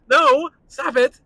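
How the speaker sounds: high, loud, drawn-out refusal; acted protest. Acting out refusing Fred Astaire's kiss, loud protest. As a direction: act out a slow, loud recoil. Acts out rejecting an old kisser.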